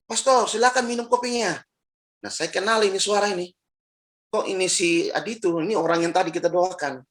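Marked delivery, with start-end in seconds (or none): 0.1-1.6 lightly voiced healed man, higher; healed man's voice. Healed man inviting the pastor to drink, lightly voiced. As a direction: offer the coffee in a lifted, gentle voice. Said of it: "suara bilang begini".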